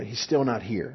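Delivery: soft, weary sigh of a line; wistful murmur. Retold or imitated. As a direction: let it sink, tired of waiting. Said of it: "you can kinda hear what".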